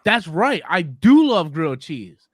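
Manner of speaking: slow, oblivious agreement; acting dumb. Replying to an insulting commenter, acting dumb. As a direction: play dumb with complete sincerity. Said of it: "The best thing is to act dumb".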